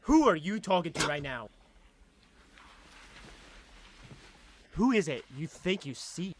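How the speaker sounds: quiet, intense menacing husband; serious dramatic dub. Acted. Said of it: "That one was serious".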